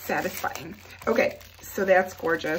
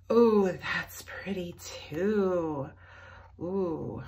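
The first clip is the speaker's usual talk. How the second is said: slow, breathy whisper; much slower than usual. Real, not acted. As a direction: hush it as if in awe. Whispering while admiring the cover.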